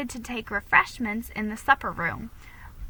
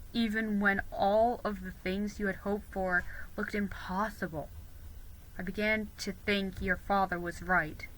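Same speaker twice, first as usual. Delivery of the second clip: lower, softer Ben, sincere; gentle boy; 3 semitones lower, 5 dB quieter than usual. Acted. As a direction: speak tenderly as the shy boy.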